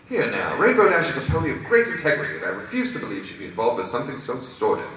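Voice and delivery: high-pitched, proper objection; indignant Rarity. Acted. Rarity defending Rainbow Dash to reserves, indignant. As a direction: defend your friend with offended dignity.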